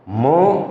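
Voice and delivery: म stopped dead with no vowel after it; clipped halant m. Shown as a demonstration. Teacher demonstrating halant म to students, cut off short. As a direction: cut the म off sharply, no trailing vowel. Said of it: "ज़्यादा लंबा नहीं लेना".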